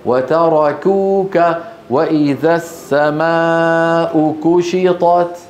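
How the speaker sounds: slow recitation, كوكا and كشطت with a front k; drawn-out verse, light k in كشطت; correct light kaf. Shown as a demonstration. Teacher recites the verses as models, light kaf. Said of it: "نطقها شبيهة بالقاف".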